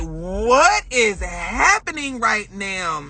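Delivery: mock bewilderment, very drawn out; slow, incredulous wail of confusion; stunned disbelief. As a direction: stretch it out in retold disbelief. Retelling own shock at mother's crying.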